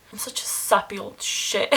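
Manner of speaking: words half-laughed out; laughing at herself. Real, not acted. Laughing at herself after getting sentimental on camera, half-laughing. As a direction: chuckle through the self-mockery.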